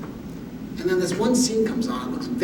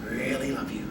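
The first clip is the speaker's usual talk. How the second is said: much softer, lower, tender near-whisper; quiet and loving; 5 semitones lower, 11 dB quieter than usual. Retold or imitated. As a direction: hush it lovingly to your wife. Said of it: "whisper really quietly and lovingly".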